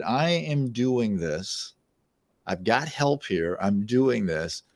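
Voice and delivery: slow, measured vow to oneself; quiet resolve. Retold or imitated. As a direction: spell out the retold decision slowly and deliberately. Retells resolving to lose weight.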